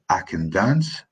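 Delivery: Scots accent with a reduced "can". Shown as a demonstration. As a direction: say "can" short and unstressed, the Scots way. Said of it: "In Scots, we say".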